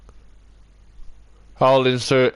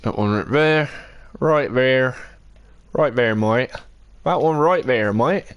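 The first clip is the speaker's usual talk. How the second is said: lightly put-on Bristol accent; mock West Country Bristol lilt. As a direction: repeat it playfully in a broad Bristol accent. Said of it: "That nice Bristol accent".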